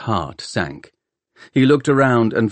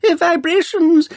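put-on very high, slow whining old man, falling; a fussy old scholar's high whine, dropping; Doctor Arkengarth whine; 5 dB louder, slower than usual. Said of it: "reedy voice of old Doctor Arkengarth whine".

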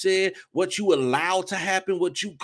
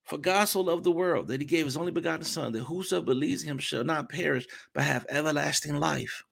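soft scripture; 2 semitones lower, 6 dB quieter than usual. Acted. Preacher repeating the verse to the congregation, quiet and hushed. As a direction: let the verse fall to a hushed hold.

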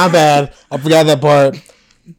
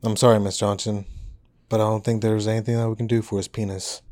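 grave doctor voice; 6 semitones lower, 10 dB quieter than usual. Acted. Doctor delivers bad news.

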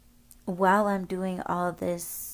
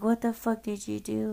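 higher-pitched, mildly distressed quote; retold self-mocking; 4 semitones higher, faster than usual. Asking him what he did, in a retold freaked-out voice. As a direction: imitate a freaked-out question, pitched up without shouting. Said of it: "coming out like I was mocking myself".

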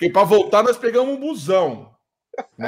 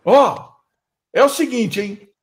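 raised, higher-pitched call to attention; shouting to the group; 3 semitones higher than usual. Retold or imitated. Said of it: "a primeira coisa que eu gritei".

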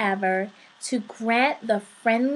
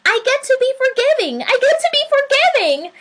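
very high, loud, fast chant; gleeful singsong; 7 dB louder, much faster than usual. A narrator's reading. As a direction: sing it out in overjoyed excitement. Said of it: "began to dance and sing".

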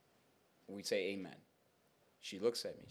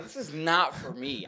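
retold protest; 4 semitones higher, 6 dB louder, slower than usual. Retold wish to get away.

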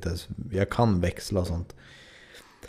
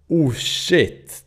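startled curse; 7 semitones higher, 4 dB louder than usual. Retold or imitated. Skid suddenly breaks loose.

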